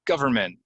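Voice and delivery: "Government" said GUH-ver-ment, no first N; silent N. Shown as a demonstration. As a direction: drop the N in "Government". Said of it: "get the N out of there".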